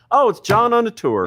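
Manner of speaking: surprised realization. Retold or imitated. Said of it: "and then I go".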